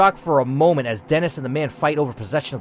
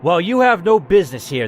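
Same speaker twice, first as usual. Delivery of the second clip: stern gunman; 2 semitones higher, 4 dB louder than usual. Acted. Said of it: "the man says".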